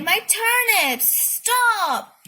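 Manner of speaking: screaming at the runaway pony; frantic shout. A narrator's reading. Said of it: "she cried".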